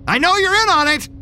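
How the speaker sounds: high accusing shout. Acted. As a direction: hammer the door and yell. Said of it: "I shouted".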